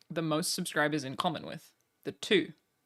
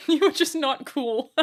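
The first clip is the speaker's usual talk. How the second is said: loud, high laughing jeer; high-pitched, laughing delivery; 10 semitones higher, 9 dB louder than usual. Real, not acted. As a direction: say it slowly through big laughs. Laughs through a teasing line.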